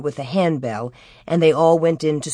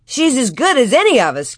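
restrained shout, pitched up; 5 semitones higher than usual. A narrator's reading. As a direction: raise the pitch in a mild call. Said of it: "Cap shouted".

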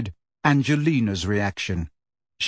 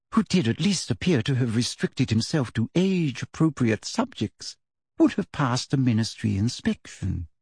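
sugary prim teacher voice; 2 semitones higher than usual. Acted. Umbridge lectures the class.

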